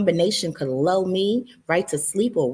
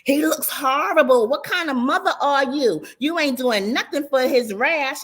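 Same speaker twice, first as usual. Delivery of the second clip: mock yelling mother; 6 semitones higher than usual. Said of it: "starts yelling".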